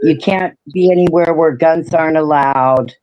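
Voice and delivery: no dentures in; toothless. Real, not acted. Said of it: "I don't have my teeth in".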